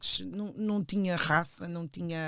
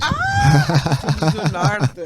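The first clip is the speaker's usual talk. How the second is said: delighted laughing shout; 14 dB louder, much slower than usual. Real, not acted. Discovering they are neighbours. (grito de surpresa a rir)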